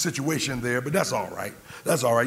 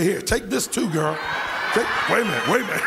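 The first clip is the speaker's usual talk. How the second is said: laughing; 6 semitones higher, faster than usual. Retold or imitated. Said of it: "I said".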